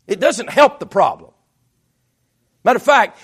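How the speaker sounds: loud, emphatic sermon delivery; forceful preaching. Real, not acted. Preacher warning that anger leads to sin, forceful preaching. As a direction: drive the point home to the congregation.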